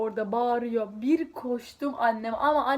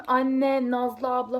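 mock calling out; 4 dB louder, much slower than usual. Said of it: "Bağırıyorum".

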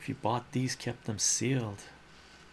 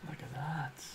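slow, higher hushed whisper; slow giggly whisper; 6 semitones higher, 7 dB quieter, slower than usual. Real, not acted. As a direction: whisper it slowly with delight.

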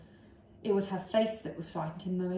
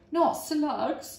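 put-on high, loud boyish cry; 8 semitones higher, 5 dB louder than usual. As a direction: protest loudly, disgusted. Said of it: "George cried out".

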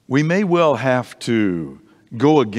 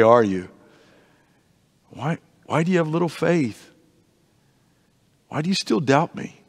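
gentle teasing. Pretend. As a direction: tease him kindly, like a friend. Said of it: "But maybe he said".

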